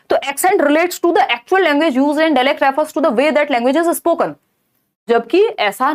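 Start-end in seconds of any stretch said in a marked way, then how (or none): 0.2-4.3 slow, deliberate question read-out. Acted. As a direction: read each word out carefully for the class. Reads an answer option.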